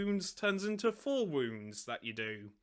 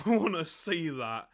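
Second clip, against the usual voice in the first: louder, laughing through the line; laughing repeat; 5 dB louder than usual. Real, not acted. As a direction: say it again, cracking up.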